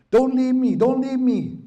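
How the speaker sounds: put-on high, loud, tearful child's cry; crying plea. Little brother begging his brother not to leave, high tearful wail. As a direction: wail it like an abandoned little boy. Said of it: "they're crying".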